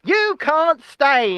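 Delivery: mock-stern politician reading out a pledge; slowing right down for a grave finish; Rishi Sunak. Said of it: "And he's actually doing this".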